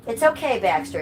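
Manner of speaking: high, gentle pet voice; calm the worried dog down; soothing the dog. Real, not acted. Streamer reassuring her dog Baxter, high and soothing.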